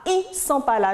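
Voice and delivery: "ils" said as a bare "i", without the L; insistence on the I. Shown as a demonstration. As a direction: stress "ils" as just "i" in "ils sont pas là". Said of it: "J'insiste sur le i".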